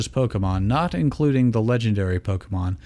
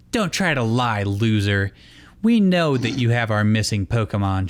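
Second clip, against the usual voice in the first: sneering. Acted. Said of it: "she sneered".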